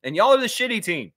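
high put-on voice; hammed-up blunt reply; cheeky team parent. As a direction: taunt the coach in a high pitch. Acts out the cheeky reply to coach.

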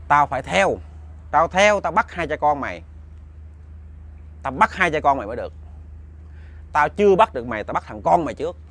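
menacing spirit threat. Retold or imitated. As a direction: threaten him like an angry ghost. Possessed child threatens father.

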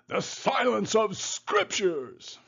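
high, slow mock Scots-Irish voice; stretched-out Scots-Irish slogan; Scot-Irish accent. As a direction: intone it as a hammed-up Scots-Irish immigrant. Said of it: "in his Scot-Irish, uh, immigrant accent".

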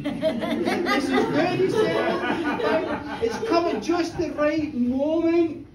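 slow words broken by laughter; laughing through it. Acted. Listener laughing as he says it's good. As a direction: laugh out the line, loud.

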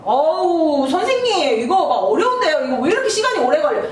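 mock student whining. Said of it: "시간이 오래 걸려요".

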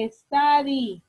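"Study" said loudly, sound by sound; three-sound demonstration. Shown as a demonstration. Teacher showing a verb has nearly three sounds, "Study" sounded out. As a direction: separate the sounds of "Study" clearly. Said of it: "casi son tres sonidos".

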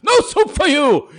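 high, loud barked catchphrase; Soup Nazi quote. Retold or imitated. Vlogger quoting Seinfeld to a commenter, loud mock bark. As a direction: snap it like a stern cook.

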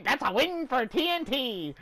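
imitated cocky announcement; mock confident. Gamer showing teammate how he said it, mock confident. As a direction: parrot a too-sure call in exasperation. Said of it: "You said it like that!".

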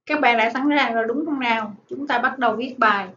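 ordinary delivery

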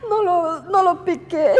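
barely getting the words out through tears; crying. Real, not acted. Insisting she did not stab.

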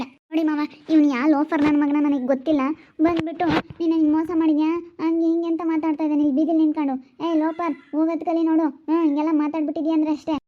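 a riled-up husband driving the stranger away; angry husband. Acted. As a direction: warn him off hard. Husband angrily threatens the lover.

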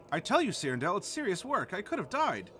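lightly voiced scruffy dog character. Shown as a demonstration. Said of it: "now we're in a dog voice".

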